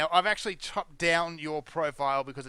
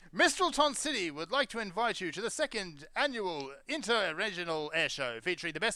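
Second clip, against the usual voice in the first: announcer voice; 4 dB quieter than usual. Acted. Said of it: "the announcer voice".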